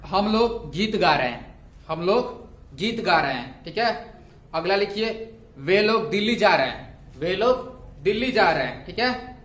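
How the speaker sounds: slow, measured dictation with pauses between phrases; classroom dictation. Real, not acted. Teacher dictating homework sentences for students to write, measured dictation. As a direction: dictate each phrase deliberately for note-takers.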